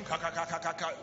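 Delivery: imitating a small chuckle, ka ka; a clipped mock chuckle; mock laugh. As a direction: mimic a poor man's laugh. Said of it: "if you were laughing".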